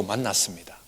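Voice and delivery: breathy whisper to land the point; hushed preacher's whisper. Real, not acted. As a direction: drop to a whisper for effect. Dramatic hush in sermon narrative.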